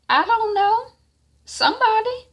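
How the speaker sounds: put-on high, whiny teenage shrug. Zora brushing off Isaiah's question, high whiny voice. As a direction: toss it off like a sulky teen.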